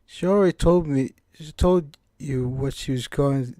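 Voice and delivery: lightly British game-character voice; British-accented character read. Acted. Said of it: "can't shake this British accent".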